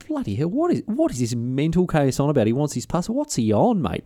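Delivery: high, startled mock milkmaid voice; incredulous milkmaid. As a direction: play her thinking he's mad. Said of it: "She's going".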